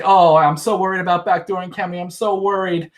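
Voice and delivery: high, rising whiny parody ending in a fake wail; mock whining. Mocking Christy's worry to viewers with a hammed-up high wail. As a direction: ham up her fake worry into a wah. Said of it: "She's like".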